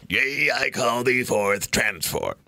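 slow, low summoning chant; deep summoning voice. Retold or imitated. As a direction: drag it out like calling a spirit. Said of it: "he did it in a deep voice".

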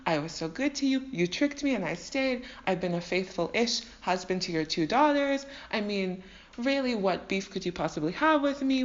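hammed-up wounded tirade; dramatic show. Jacob berating Laban for distrusting him, mock-dramatic outrage. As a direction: play the victim, theatrically aggrieved. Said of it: "put on his own dramatic show".

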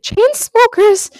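reluctantly. Acted. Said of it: "can't even say it".

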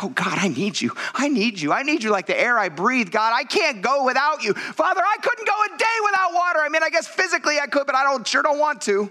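rising, longing plea to God; pleading prayer. Pretend. Believer praying to God, pleading and rising. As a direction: cry out your need for God. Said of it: "I wanna be like".

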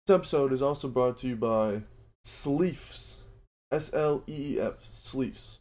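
upbeat sponsor read for listeners. Acted. Host pitching Built Bar to his listeners, ad read. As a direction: sell the protein bar like a radio spot.

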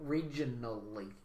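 low, soft, slow mock drunk; imitating drunk speech. Teasing how a co-host said it, slow mock drunk. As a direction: draw REGIONALLY out like a mock drunk. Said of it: "how he said that drunk".

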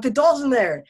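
put-on high, loud alarmed kid; retold panic. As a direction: blurt it out in mock panic. Panicked child reports the doll.

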